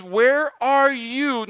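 slow, longing call, not a threat; loving God calling. Retold or imitated. Preacher voicing God seeking Adam and Eve, slow and longing. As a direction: call out because you want to be with them. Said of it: "Not because he wanted to punish them".

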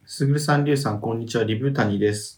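measured reading of listener mail; letter read-aloud. Acted. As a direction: read the message out evenly.

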